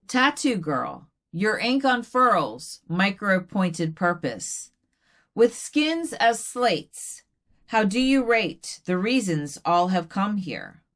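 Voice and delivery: slow, deliberate verse recital; poetry reading. Acted. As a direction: linger on each short phrase. Recites third poem.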